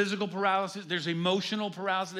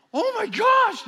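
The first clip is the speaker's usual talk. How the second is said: put-on high, loud girlish shriek; shocked squeal; 12 dB louder, slower than usual. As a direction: squeal like startled teenage girls. Girls freak out at the reveal.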